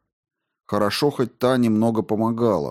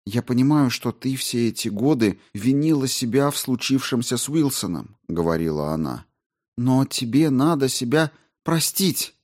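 higher-pitched, lightly voiced woman astrobiologist; gently insistent plea to a partner, pitched up; Рао уговаривает; 5 semitones higher than usual. Narrator voices Rao pleading. (уговаривающий голос повыше)

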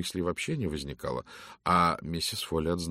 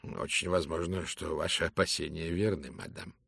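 lightly voiced gallant detective; soft courteous Poirot; 2 semitones lower, 3 dB quieter than usual. Poirot answers. (тихий учтивый голос)

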